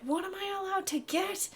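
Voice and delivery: put-on high, unsure child voice; Alvaro. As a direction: ask permission in a small high voice. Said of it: "looking back at you like".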